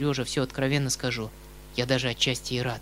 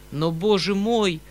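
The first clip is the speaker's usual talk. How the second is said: in despair; 7 semitones higher, 6 dB louder than usual. A narrator's reading. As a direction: wring it out in despair. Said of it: "сказал я в отчаянии".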